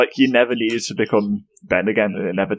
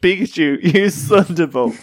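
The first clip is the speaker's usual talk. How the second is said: Ash voice; 8 semitones higher than usual. Pretend. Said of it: "his response is always just".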